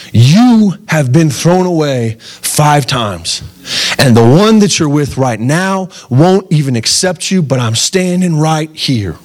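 slow, gentle, close to tears; a preacher voicing Jesus tenderly accepting the outcast woman; tender reassurance.

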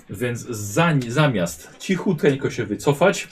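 ordinary delivery

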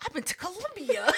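laughing comeback. Retold or imitated.

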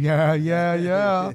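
lightly imitated laid-back movie star; hint of a celebrity impression; Matthew McConaughey. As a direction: do a casual actor impression. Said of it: "Matthew McConaughey".

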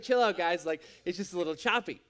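low, unbothered brush-off; calm down the overreacting friends, casually; laid-back dismissal. Deflating the disciples' mock panic.

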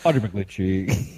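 slow, lightly mocked reporter sign-off; Audrey McGlinchey. Co-host mimicking a reporter's cadence to friends, slow light imitation. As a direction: draw the name out like a radio tagline, lightly. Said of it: "a cadence to her voice".

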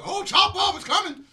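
high, loud hype call; excited. Retold or imitated. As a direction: hype it up like the crowd. Imitating the crowd's excitement.

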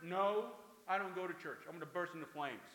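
loud, emphatic mock refusal; dismissive opposition. Stranger turning down a church invitation, mock dismissive. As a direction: refuse outright, starting with a punched no.

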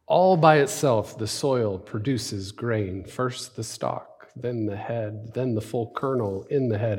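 measured reading with long pauses; slow scripture reading. Acted. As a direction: read the parable slowly, phrase by phrase. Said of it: "I'll read 'em slowly".

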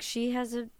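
soft, mildly pleading sincerity; earnest. Retold or imitated. Host retelling a defence of a struggling mother, softly earnest. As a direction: make a quiet, sincere case for her. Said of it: "it was, like, very earnest".

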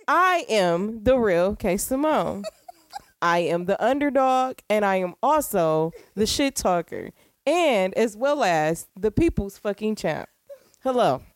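formal anchorman delivery; news anchor voice. Pretend. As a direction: announce it like a TV host. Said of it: "the anchor voice?".

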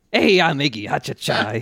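imitating a Brooklyn tough-guy voice; cheeky New York street accent. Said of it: "doing a Brooklyn accent".

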